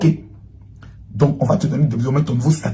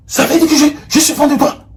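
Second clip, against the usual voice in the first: laughing; 12 semitones higher than usual. Real, not acted. Teasing a fan.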